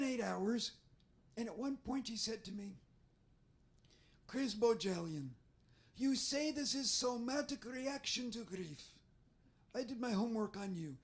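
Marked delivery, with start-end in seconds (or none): 4.3-11.0 put-on stern, thick foreign accent; deadpan drill-sergeant foreign accent; Israeli accent. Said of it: "So sometimes I try to mimic her".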